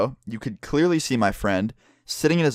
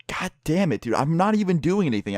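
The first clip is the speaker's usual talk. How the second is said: higher, whiny protest of innocence; retold exasperated protest; 5 semitones higher than usual. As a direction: act out being unfairly blamed. Protesting being blamed, retold.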